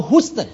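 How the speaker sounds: "Houston" as HOOS-ton, oo vowel without a y; mispronounced Houston. Shown as a demonstration. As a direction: make the first syllable of "Houston" sound like "hoos". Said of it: "H O U should be oo".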